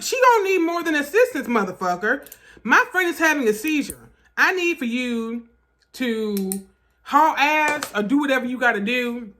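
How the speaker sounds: exasperated urgent demand. Retold or imitated. Friend demanding the usher hurry for a seizure, exasperated. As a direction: push the urgency, indignant but not shouting. Frantic retort to calm usher.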